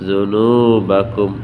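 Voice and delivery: জুনুবাকুম read slowly, syllables drawn out; slow Quran recitation; slow joined reading. Shown as a demonstration. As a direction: blend the spelled letters into জুনুবাকুম. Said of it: "teacher demonstrates joined reading".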